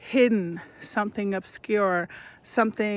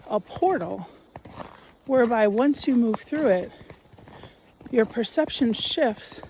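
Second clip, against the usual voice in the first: guided meditation. Acted. Guide walking listeners toward a sacred space, guided meditation voice. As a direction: guide listeners step by step, unhurried.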